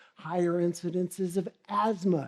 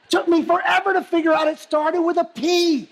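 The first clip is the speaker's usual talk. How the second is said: higher and louder, laughing through it; laughing excitedly; 10 semitones higher, 8 dB louder than usual. Real, not acted. Speaker laughs telling own search.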